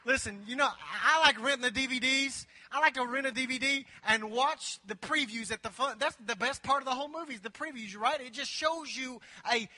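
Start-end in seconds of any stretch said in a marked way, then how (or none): 0.0-3.9 chuckling through the words; amused, laughing lightly. Real, not acted. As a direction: laugh it off after the joke. Laughing after joke.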